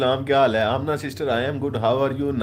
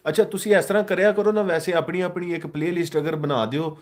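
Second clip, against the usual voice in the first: eager suggestion; 7 semitones higher than usual. Real, not acted.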